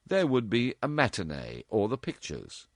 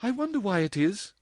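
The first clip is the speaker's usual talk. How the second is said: musing; 13 semitones higher than usual. A narrator's reading. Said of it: "she added musingly".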